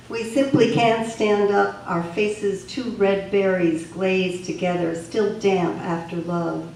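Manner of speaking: emphatic poem recital, firmly projected; poetry reading. Acted. Poet reading the Original Human poem aloud, emphatic recital. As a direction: deliver it as verse, phrase by phrase.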